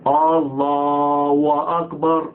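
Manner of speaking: Allahu drawn out into a "wa" before أكبر; slow chant of الله أكبر with a waw slipped in after الله; wrong linking sound. Shown as a demonstration. Teacher showing muezzins their first mistake, mispronounced chant. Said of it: "بقى فيه واو".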